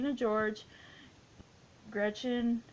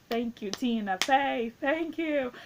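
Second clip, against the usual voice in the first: gushing thanks; 4 semitones higher, 5 dB louder, slower than usual. Pretend. Calls out thanks to Tina Fey.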